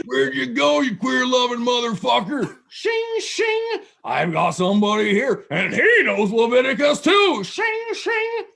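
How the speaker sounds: taunting shout from a man waving a machete; imitating a yelling maniac. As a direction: ham up a crazed redneck hunting someone in the dark. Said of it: "yelling at the darkness".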